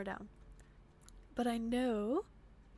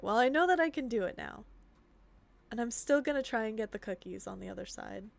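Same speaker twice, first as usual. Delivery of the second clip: usual speaking voice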